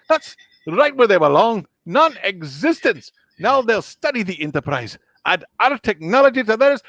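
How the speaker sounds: high Scottish ship's engineer; indignant, high-pitched Scottish impression; Scotty. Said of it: "can do the old Scotty".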